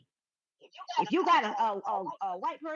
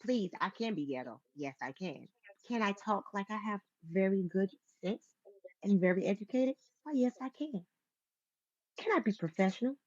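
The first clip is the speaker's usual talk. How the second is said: switching registers; 3 semitones lower, 4 dB louder than usual. Shown as a demonstration. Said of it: "You went through every single phase and hit it perfectly".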